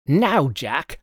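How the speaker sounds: contained narrated shout; mild shout. A narrator's reading. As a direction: call out the cue suddenly. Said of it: "he turned to me shouting".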